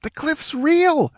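very high, drawn-out cry of horror; shrieked. A narrator's reading. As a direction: shriek it in slow disbelief. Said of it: "shrieked the squire".

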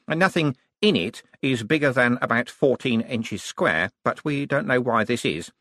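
lightly voiced, rambling and stammering; apologetic young wizard. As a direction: stumble awkwardly through the excuses.

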